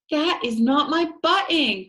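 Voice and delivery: crying out that it isn't his button; cried. Shown as a demonstration. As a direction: cry it out like a hurt child. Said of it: "He cried it".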